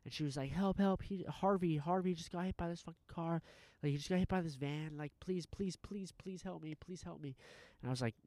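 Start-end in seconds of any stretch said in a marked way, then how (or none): 0.5-7.4 high-pitched imitation of a panicked plea; frantic begging. Retold frantic owner begging for help.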